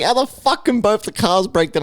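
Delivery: high, incredulous mum; mock-outraged mum; exasperated mum. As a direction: pitch it up in disbelief.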